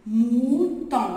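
"mouton" chanté fort; lecture appuyée. Shown as a demonstration. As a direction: lance "mouton" à la classe. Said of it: "M-O". (mot répété plus fort)

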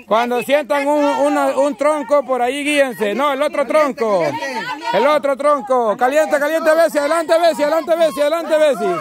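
running play-by-play of a contest; lively game-host commentary. Real, not acted. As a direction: call the race and urge the players on. Live commentary of blindfold game.

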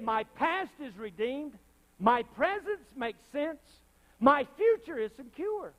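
high, loud, slow proclamation; rising pledge. Real, not acted. Preacher proclaiming a martyr's pledge, high and loud. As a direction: build it to a roar.

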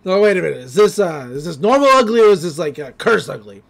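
loud startled shout at the mirror; yell, then puzzle it out; mock alarmed yell. Stan shocked at his face in the mirror, loud. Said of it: "He's like".

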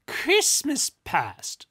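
high, slow, exasperated stress; irritated. A narrator's reading. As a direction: spell it out, losing patience. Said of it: "growing irritated".

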